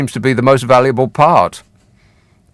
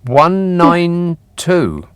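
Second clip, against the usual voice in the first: disbelief; 3 semitones higher, much slower than usual. Real, not acted. Host stunned by petrol price.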